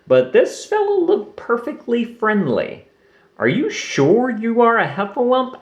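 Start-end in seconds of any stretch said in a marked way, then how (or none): 3.4-5.6 put-on young Roo. A narrator's reading. Roo asks Lumpy.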